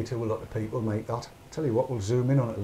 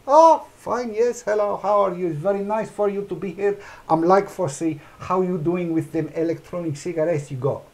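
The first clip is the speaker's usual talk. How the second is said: high, loud gushing welcome that settles down; the waiter now gushing over the reviewer, hammed-up fawning; fawning staff member; 6 semitones higher, 3 dB louder than usual. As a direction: suck up to the famous customer. Staff turns fawning on recognition.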